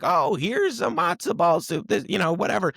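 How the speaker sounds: put-on New York Jewish accent. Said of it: "in the most, like, New York Jewish accent".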